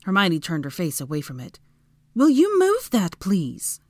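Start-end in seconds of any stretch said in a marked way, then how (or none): 2.2-3.8 high, loud demand, dropping on the last word; snapping. A narrator's reading. Hermione turning from his arm, snapping. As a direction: snap it slowly in a high voice. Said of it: "she snapped".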